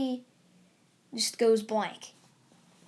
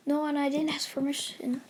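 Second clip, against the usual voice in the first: begging; 3 semitones higher than usual. Acted. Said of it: "on two knees begging".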